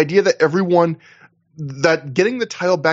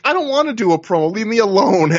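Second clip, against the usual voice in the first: higher, quick, hammed-up brush-off; mock whiny refusal; 6 semitones higher than usual. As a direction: whine it off like a grumpy wrestler. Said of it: "they're telling the guys".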